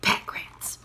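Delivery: unvoiced whisper. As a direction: hiss it from the closet. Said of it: "whispered the bootmaker".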